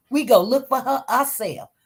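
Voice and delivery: lightly put-on Southern voice; a hint of Southern accent; imitated Southern accent. Shown as a demonstration. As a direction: demonstrate the Southern family's phrasing. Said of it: "their Southern af-, accent. Y'all say it".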